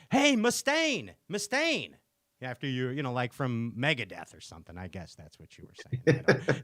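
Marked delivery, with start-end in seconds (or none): 0.1-1.9 mock yell. Guest kept yelling a nickname at him, mock yell. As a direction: imitate someone hollering a nickname, without real volume. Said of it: "you just kept yelling at me".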